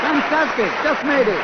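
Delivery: high, loud delighted host; excited. Real, not acted. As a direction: cheer the close finish.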